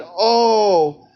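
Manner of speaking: exaggerated "oh no" of fake dismay; mock sad. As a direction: feign sadness, sarcastically. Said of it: "I'm supposed to be sad".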